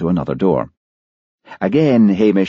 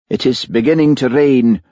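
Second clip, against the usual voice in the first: testy; 7 semitones higher, 4 dB louder than usual. Acted. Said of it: "came the testy voice of the pathologist".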